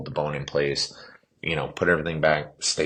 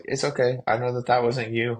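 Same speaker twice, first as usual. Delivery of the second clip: nurse voice, much higher and reassuring; a nurse gently forgiving him, pitched up; kind nurse; 9 semitones higher than usual. Retold or imitated.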